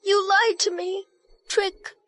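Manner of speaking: put-on a heartbroken girl near tears, doubting her beloved; tearful. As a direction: choke out the questions as hope collapses. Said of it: "Are you done crying?".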